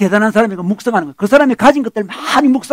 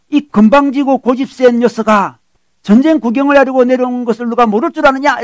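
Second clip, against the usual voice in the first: mild mock scolding; 3 semitones higher than usual. Eliab scolds David for coming to the battle, mildly acted. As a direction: imitate a brother telling off his junior. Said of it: "꾸짖어요".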